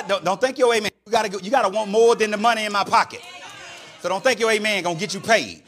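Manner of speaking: loud, punchy sermon delivery; energetic preaching. Real, not acted. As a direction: preach it hard to the congregation.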